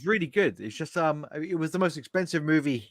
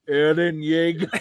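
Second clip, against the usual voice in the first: slow, drawn-out mock anime "Eren Yeager"; slower than usual. Teller's joke punchline, the name in a slow mock anime voice. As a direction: deliver the punchline like an anime hero. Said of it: "anime response".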